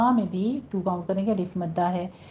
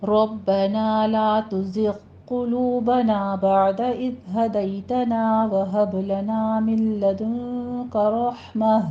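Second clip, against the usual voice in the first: slow, melodic recitation of the dua; slow Quranic chant; much slower than usual. Shown as a demonstration. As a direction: chant the dua slowly and prayerfully. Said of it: "बहुत खूबसूरत दुआ है".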